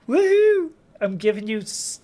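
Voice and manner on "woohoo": high, loud whoop of joy; real delighted whoop, much higher and louder; excited cheer. Real, not acted. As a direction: cheer them on at the top of your voice. Cheering a viewer's surgery news.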